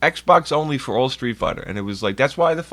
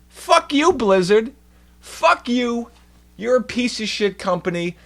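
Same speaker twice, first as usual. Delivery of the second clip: furious shout; 10 semitones higher than usual. Real, not acted. Streamer shouting at Blizzard, furious. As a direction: yell it at the company. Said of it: "furious rant".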